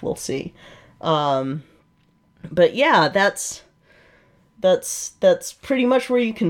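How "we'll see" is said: whispered under the breath. Real, not acted. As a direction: drop to a whisper. Trailing whispered aside.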